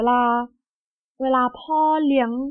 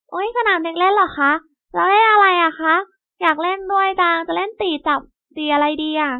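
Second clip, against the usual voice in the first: put-on higher, louder eager child voice; excited little girl; 4 semitones higher, 4 dB louder than usual. Emma hears about the playground, thrilled and eager. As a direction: bounce with delight at the idea.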